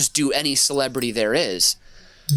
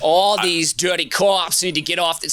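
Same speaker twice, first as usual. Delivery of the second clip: put-on Kennedy Boston accent; 4 semitones higher, 3 dB louder than usual. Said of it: "I went Kennedy".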